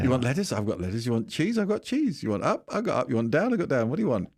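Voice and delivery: lightly voiced eager seller, call and answer; mocking a politician who offers anything asked for, lightly sing-song; mock sing-song offering. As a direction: bounce each offer up then answer it.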